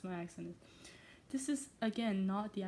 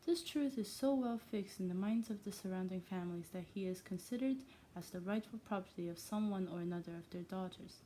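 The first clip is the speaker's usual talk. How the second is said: reading with a hint of Irish; faint, accidental Irish lilt; vaguely Irish accent. Reader narrating a classic novel, vaguely Irish accent. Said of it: "why do I sound kind of vaguely Irish".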